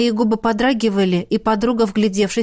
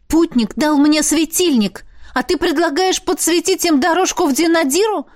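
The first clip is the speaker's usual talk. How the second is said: indignant; 8 semitones higher than usual. A narrator's reading. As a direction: bristle with outrage. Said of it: "возмутилась я". (возмущённо, громко и высоко)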